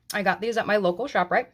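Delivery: words mushed by a mouthful; mouth full. Real, not acted. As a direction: talk through a full mouth. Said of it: "Sorry for talking with my mouth full".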